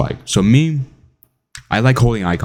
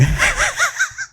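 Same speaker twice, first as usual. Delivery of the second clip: high laugh; 4 dB quieter than usual. Real, not acted. Laughs at own impression.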